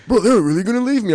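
high, loud mock protest; hammed-up incredulous yell; imitated indignant disbelief. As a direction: whine loudly as the shocked friend left behind. Imitates friend's disbelief at gate.

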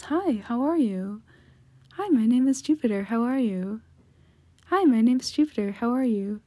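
practised sweet greeting, swooping up in pitch. Shown as a demonstration. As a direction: lilt up lightly on each greeting. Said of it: "like, a higher pitched voice like this".

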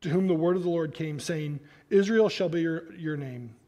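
steady, measured reading of a Bible passage; scripture reading. Acted. Preacher reading Elijah's story from scripture, measured. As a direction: read the passage out to the congregation.

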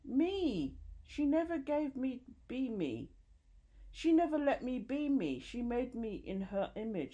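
high-pitched impassioned outcry. A narrator's reading. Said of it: "Then louder, as if emboldened".

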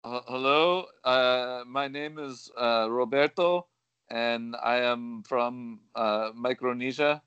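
halting caller in a badly faked Micronesian accent; phone-in caller with a dubious Micronesian accent; horrible Micronesian accent. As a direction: put on a hesitant, unconvincing Micronesian accent. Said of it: "Did you just hear his horrible accent?".

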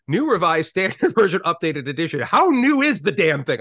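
New Revised Standard Version Updated Edition said with a laugh, mocking its length; mocking exasperation. Shown as a demonstration. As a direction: roll your eyes at the endless title, laughing. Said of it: "garbage words and garbage syllables".

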